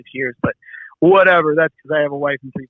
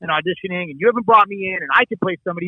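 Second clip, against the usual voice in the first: heated, high-pitched rant retold; laying into him; 3 semitones higher than usual. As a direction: tear into a friend in exasperation. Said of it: "I just laid into him".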